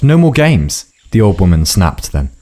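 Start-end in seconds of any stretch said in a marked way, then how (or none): 0.0-0.9 high, sharp yelled refusal. A narrator's reading. Tao refusing the old woman, yelled. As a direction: cut her off with a yell. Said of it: "Tao yelled".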